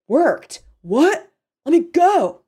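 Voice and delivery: high, loud, alarmed questions; yelled protest. A narrator's reading. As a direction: yell out, rising to a demand. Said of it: "his yells of protest".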